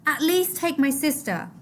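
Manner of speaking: put-on high pleading boy; lightly voiced high plea; begging. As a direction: beg for your sister. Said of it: "Mahmoud begged".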